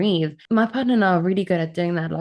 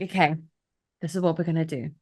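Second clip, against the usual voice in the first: calm logic mode; 4 dB quieter, faster than usual. Retold or imitated. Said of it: "like, logic mode".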